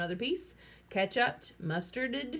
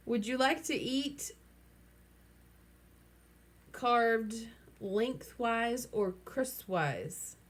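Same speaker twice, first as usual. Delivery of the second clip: slow, high, fussy waiter voice; a mock waiter offering the worm with slow, high politeness; 4 semitones higher, much slower than usual. A narrator's reading. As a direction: serve it up like a snooty waiter.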